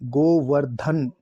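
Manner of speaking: गोवर्धन said very slowly, stressing the ध; slow correct demo. Shown as a demonstration. Teacher slowly sounding out गोवर्धन for students. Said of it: "ध आएगा".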